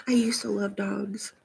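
a hushed, guilty whisper; whispered aside. Real, not acted. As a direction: whisper it like a little confession. Confessing a changed preference.

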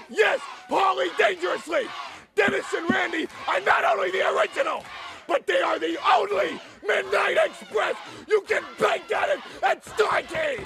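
lightly voiced toothless mumble, shouted; mock the beaten manager with no teeth, half-hearted; toothless Leon Spinks. Manager mocked as toothless, lightly voiced toothless shout. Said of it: "talking like this".

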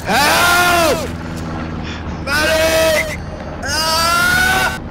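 hammed-up wounded soldier yelling; man down shout. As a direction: scream for a medic like you're dying. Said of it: "I just joined in with him".

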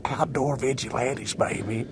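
slow, proud shout-out of the name; proud slogan. Real, not acted. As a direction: announce Outdoor vigilantes with pride.

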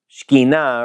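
Shekhinah as "shkee-NAH", weight on the last syllable; proper Hebrew pronunciation. Shown as a demonstration. Teacher says the word isn't in the Bible, Shekhinah as Hebrew "shkee-NAH". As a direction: open Shekhinah on a run-together "shk", end on stressed "NAH". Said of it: "In Hebrew, it's really Shekhinah".

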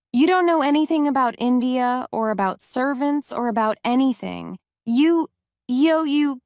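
fast, rising outburst that breaks off stammering; a spoilt girl losing her temper and her words; furious child. Acted. Mary, furious at the servant who won't dress her, angry outburst. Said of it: "Little Miss Mary was furious with Martha".

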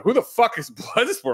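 mock guard shout. Guards demanding Bloodsport, high voice.

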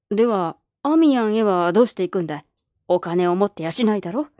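a lightly voiced skeptical old man; gruff old man. Old man doubting the girl's trip, lightly gruff. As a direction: doubt her plan like a crusty grandpa.

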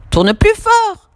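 high, slow, drawn-out command; bossy order. Acted. Julie ordering Samy to stir harder, high and slow. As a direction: push him to stir harder. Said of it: "dit Julie".

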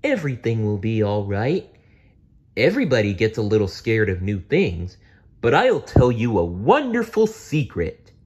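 lightly voiced dinosaur, soothing; calm a frightened kid; reassuring Barney.

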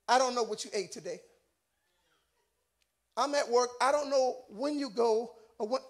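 low, hushed, paused admission; wife's soft confession. Retold or imitated. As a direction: speak softly, as a wife conceding on the phone. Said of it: "She called me from work".

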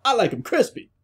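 high-pitched imitated game line; Dom. Player retelling Dom's toast reply, high imitation. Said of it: "Dom says".

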